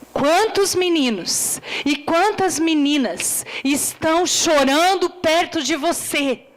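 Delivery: normal talking voice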